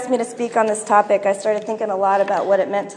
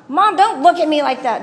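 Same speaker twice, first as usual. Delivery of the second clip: put-on higher, childish voice getting sharper at the end; little girl imitation; 5 semitones higher, 4 dB louder than usual. Little girl apologizes to grandma then snaps at mom, higher childish voice. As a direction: mimic a bratty four-year-old talking back. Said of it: "I notice the little girl go".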